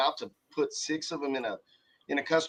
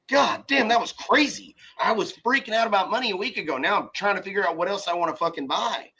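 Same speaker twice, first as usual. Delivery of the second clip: amazed relief; 5 semitones higher than usual. Retold or imitated. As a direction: blurt it out stunned by sudden money. Imagined self after a windfall.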